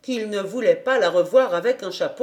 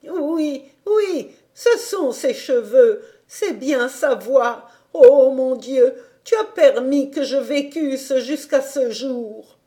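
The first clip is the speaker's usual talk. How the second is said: slow, laughing through tears, voice louder at Oh mon Dieu; overwhelmed old woman weeping happily; tears of joy; 5 semitones higher, 6 dB louder than usual. Acted. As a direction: grandmother crying with joy. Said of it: "larmes de joie".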